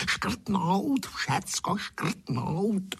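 high roaring strike-it-all order; roaring chairman. A narrator's reading. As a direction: bellow the order, drawn out. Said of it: "zaburácel".

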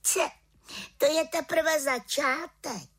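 high, slow boastful witch; little witch declaring. Acted. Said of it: "prohlásila malá čarodějnice". (malá čarodějnice prohlašuje, vysoko a pomalu)

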